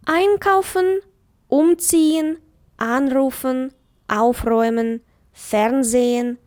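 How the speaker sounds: Einkaufen, umziehen, anrufen, aufräumen, fernsehen each stressed on the first syllable, the prefix; careful teacher demo of prefix stress. Shown as a demonstration. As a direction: read each word clearly, leaning on ein, um, an, auf, fern. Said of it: "звернули увагу на наголос".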